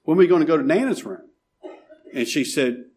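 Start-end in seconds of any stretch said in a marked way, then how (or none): 0.0-1.3 quick, higher, lightly voiced eager child; happy little boy. Small boy asking his mother on the cruise, happily. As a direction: ask it fast like an excited small boy. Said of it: "was happy, and he said".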